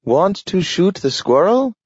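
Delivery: high, bright offer to hunt; a dog keen to go after the squirrel; eager talking dog. A narrator's reading. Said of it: "he said".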